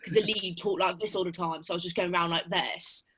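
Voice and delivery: put-on British TV accent. Shown as a demonstration. Actress shows how she went around talking, British accent. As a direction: imitate a British lead actor's accent. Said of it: "like, a British T V show".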